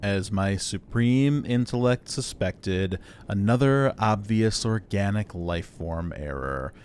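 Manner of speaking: slow, level, haughty robot intellect; condescending superior machine. Acted. Robot doubts the organic still has a weapon, condescending. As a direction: talk down wearily to a dim organic.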